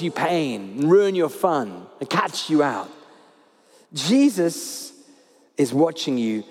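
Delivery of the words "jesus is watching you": tender reassurance. Real, not acted. Preacher reassures the congregation, gentle and lower. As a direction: reassure them he loves them.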